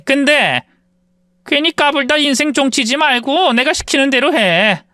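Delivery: mother-in-law threatening the classmates; stern mother-in-law. Acted. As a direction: lay down the law.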